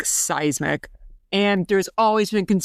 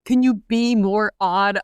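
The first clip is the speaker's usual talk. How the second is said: imitated sketch line; 3 semitones higher, slower than usual. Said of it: "that phrase is so funny to me".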